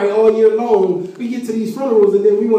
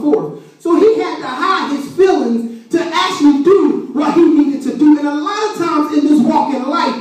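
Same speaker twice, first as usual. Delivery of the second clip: raised, emphatic sermon voice; preaching; 7 semitones higher, 4 dB louder than usual. Real, not acted. Preacher explains Jesus weeping to the congregation, preaching.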